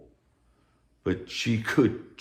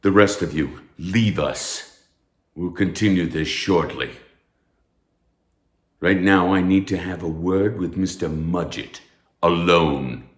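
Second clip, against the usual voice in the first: commanding dismissal; 3 dB louder than usual. Acted. Professor dismisses the class.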